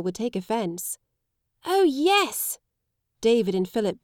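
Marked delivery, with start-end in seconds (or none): 1.6-2.6 put-on high eager boys' yes; children thrilled at the duel; much higher delighted cry; excited cheer. Boys cheer.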